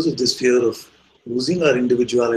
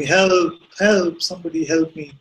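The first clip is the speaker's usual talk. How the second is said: high, louder cry for help; mock shout for help; 6 semitones higher, 4 dB louder than usual. Man hanging off cliff shouts for rescue, acted shout. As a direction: call out desperately, acting the story. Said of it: "he's shouting".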